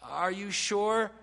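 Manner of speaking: slow, drawn-out doubting question. Acted. Preacher voicing his doubt of God's promise, doubting question. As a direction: stretch it out as a mild challenge. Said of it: "what my mind thinks about".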